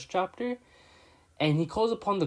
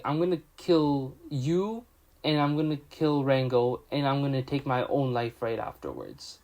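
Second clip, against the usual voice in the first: serious. Retold or imitated. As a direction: recount a grave threat with understated, deliberate weight. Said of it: "he gets all serious".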